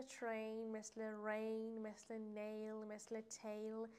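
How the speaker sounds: ترین، رین، نیل، تیل with a drawn-out "ay"; "ay" vowel. Shown as a demonstration. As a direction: model the long "ay" glide in ترین and تیل.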